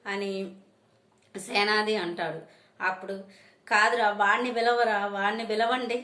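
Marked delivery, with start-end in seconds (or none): 3.7-6.0 a touch of a yell, a little raised; mother half-yelling for Vishwak; shouting. Acted. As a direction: demand the son come out. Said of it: "గట్టిగా అరుస్తుంది".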